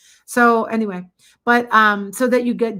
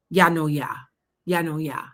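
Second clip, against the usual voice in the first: mock Milwaukee accent; 3 semitones lower than usual. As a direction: parody a fake Wisconsin accent. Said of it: "people in Milwaukee don't talk like that".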